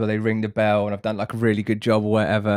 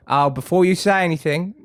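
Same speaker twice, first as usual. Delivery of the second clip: a lightly voiced breezy interruption, a touch higher; client cutting in; 7 semitones higher than usual. Client stops the banker before he speaks, lightly voiced breezy. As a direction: cut in cheerfully before bad news lands. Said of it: "And he goes".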